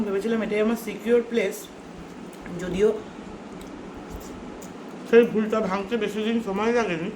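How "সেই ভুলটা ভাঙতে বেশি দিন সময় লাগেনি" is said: ordinary delivery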